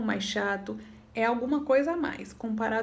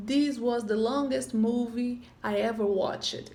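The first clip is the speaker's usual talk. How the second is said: slow model sentence; slower than usual. Shown as a demonstration. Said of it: "Por exemplo".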